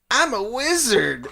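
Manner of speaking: slow, pretend-proud joke; jokingly. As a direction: say it as if you're only kidding. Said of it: "I'm gonna say it jokingly".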